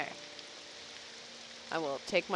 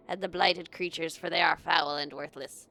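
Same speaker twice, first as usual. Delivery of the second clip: rough gravelly NPC hunter. Acted. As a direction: growl it out like a grizzled hunter. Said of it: "you like my gravelly voice".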